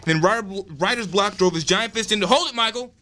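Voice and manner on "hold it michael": calling out. Real, not acted. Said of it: "interjected".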